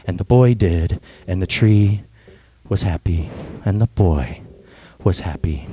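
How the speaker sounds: gentle storybook narration, voicing tree and boy; storyteller reading to a congregation; story reading. A narrator's reading. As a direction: read it like a children's book at a sermon. Reads The Giving Tree aloud.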